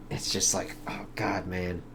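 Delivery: a soft, whispered aside of dismay; hushed awe. Real, not acted. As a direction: murmur it, moved by the scene. Overwhelmed by lonely scene.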